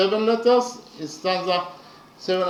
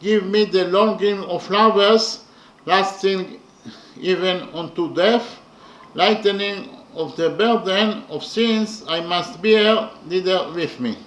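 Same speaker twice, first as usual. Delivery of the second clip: poem recital; 3 dB louder than usual. Shown as a demonstration. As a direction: declaim the prayer like a poem. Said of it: "The translation to English is as follows".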